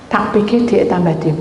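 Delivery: ordinary talk, nothing marked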